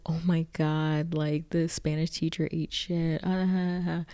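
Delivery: callous giggly gossip, imitated; mock laughing. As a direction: finish on a put-on "ah, ha, ha". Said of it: "laughing and she's like".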